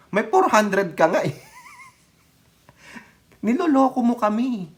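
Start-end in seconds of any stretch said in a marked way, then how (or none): 3.5-4.7 high mocking jab; sarcastic high taunt. Real, not acted. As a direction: taunt them, pitched way up. Mocking shout at politician.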